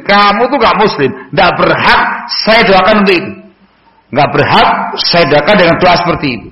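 tegur dengan nada tinggi dan tegas; teguran keras. Retold or imitated. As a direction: menegur orang Nasrani dengan nada tinggi. Ibnu Umar menegur orang Nasrani. (teguran tegas bernada tinggi)

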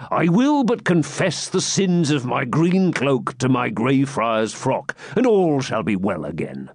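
slow mock-pious hermit, falling in pitch; breezy hermit. Hermit excusing his green cloak to the jester, mock-pious. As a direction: start high and slow, then settle into reassurance.

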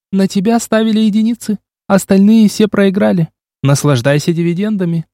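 a hint of a confident girl; young woman's voice. A narrator's reading. Narrator voices young woman Oksana. (лёгкий женский голос)

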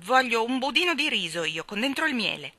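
put-on a boy insisting on his pudding; sulky demand. Michael demanding pudding from Mary Poppins, loud and sulky.

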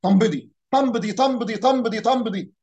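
mock calling out طنبدي; microbus caller. Driver calling passengers to Tanbadi, mock shouted. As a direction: chant the village name like a minibus driver. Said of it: "الميكروباص بينده".

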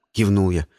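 ordinary delivery

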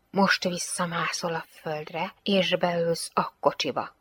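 slow, hushed order; commanding. Acted. Lieutenant orders the girl back into the car, commanding. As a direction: give a quiet, measured command.

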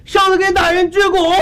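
high Shandong-dialect greeting; Shandong accent. Acted. Plaintiff bows before the magistrate, in high Shandong accent. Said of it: "他不上山东话说的吗？".

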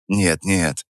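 тихо и мягко перебивая; перебей мягко. Acted. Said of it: "мягко перебил я его". (мягко перебивает)

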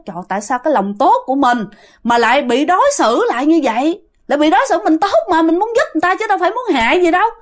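mildly indignant, rising in pitch as it builds; indignant complaint. Retold or imitated. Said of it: "Ổng tức, các bạn nói". (hơi bực tức, phân bua)

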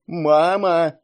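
put-on loud, high childlike call; insistent drawn-out cry. A narrator's reading. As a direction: raise the voice and call for mother. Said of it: "возвысил голос Илья".

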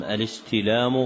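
الاستلام ending in a short u; final damma. Shown as a demonstration. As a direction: sound the damma at the end of الاستلام. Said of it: "بالضم".

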